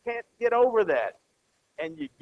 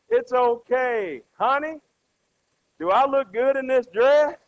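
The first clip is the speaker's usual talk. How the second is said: wife's hopeful question; 6 semitones higher, 6 dB louder than usual. Acted. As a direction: play a wife angling for a compliment, pitched up. Acts out wife asking husband.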